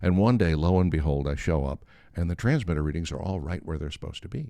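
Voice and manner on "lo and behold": ordinary delivery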